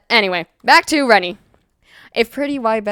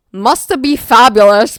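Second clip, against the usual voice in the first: fabulous dramatic director; 7 dB louder, slower than usual. Acted. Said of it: "this man wants to be fabulous".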